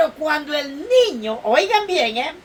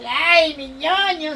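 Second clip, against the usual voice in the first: mother's delight; slower than usual. Acted. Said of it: "Dice así".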